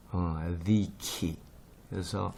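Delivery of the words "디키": 디키 slowly, starting with voiced th; buzzing th opens 디키; Greek delta as TH. Shown as a demonstration. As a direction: say 디키 as a slow "thi-ki". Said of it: "그래서 요 발음이에요".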